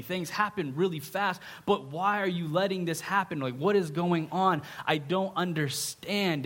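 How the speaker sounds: mildly bewildered appeal to God; confused. Acted. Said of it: "He's confused".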